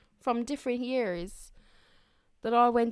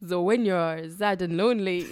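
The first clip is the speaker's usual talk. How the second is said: Christopher Walken; 5 semitones lower than usual. Retold or imitated. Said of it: "sounds like Sebastian from the Little Mermaid".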